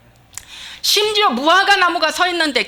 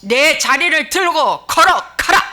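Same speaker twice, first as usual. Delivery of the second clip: loud, higher, slow forceful order; booming, deliberate order; direct command; 4 semitones higher, 6 dB louder, slower than usual. Acted. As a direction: command it outright, each phrase punched. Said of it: "이렇게 안 했다는 거예요".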